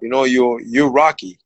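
lightly imitated low star voice; retold star insisting, pitched a little down; Sylvester Stallone. Movie star repeats his point to a puzzled fighter, lightly imitated low voice. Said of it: "He goes".

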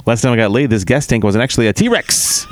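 lightly voiced old borscht belt comic; Catskill comic. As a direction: deliver it like a Catskills stand-up, lightly. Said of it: "possessed by the Catskill comic".

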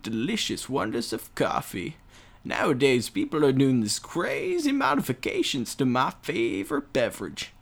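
a hint of a rambling old man. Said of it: "I talk in an old man voice".

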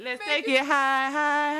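rising high. Acted. Hyping the music higher.

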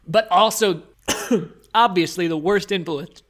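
coughing mid-sentence on food; choking on scone. Real, not acted. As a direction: talk through a choke on a scone. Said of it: "Sorry, I'm choking on my scone".

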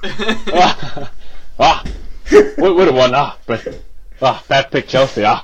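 drawn-out Clough ahs, mildly put on; lightly voiced old football manager; a hint of Clough musing over a pick; Brian Clough impression. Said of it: "Is that Irish?".

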